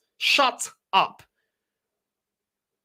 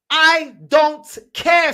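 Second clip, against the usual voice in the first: fed up; 6 semitones higher, 8 dB louder, much slower than usual. Real, not acted. Fed-up rant end.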